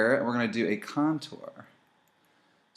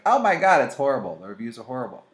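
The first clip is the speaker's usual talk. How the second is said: retold shock; 6 dB louder than usual. Recalling reading terrible product reviews, mock alarm.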